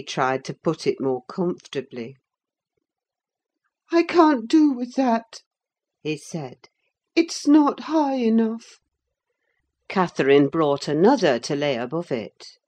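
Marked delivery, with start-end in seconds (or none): 3.9-5.4 high, fretful invalid's complaint; peevish sickly youth; whiny sick boy. A narrator's reading. Sick Linton grumbling to Catherine, high and fretful. 7.2-8.8 high, fretful invalid's complaint; peevish sickly youth; whiny sick boy. A narrator's reading. Sick Linton grumbling to Catherine, high and fretful.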